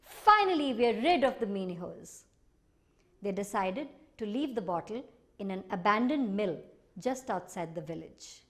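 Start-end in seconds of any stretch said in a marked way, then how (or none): 0.0-2.2 relieved joy. Acted. Family celebrating.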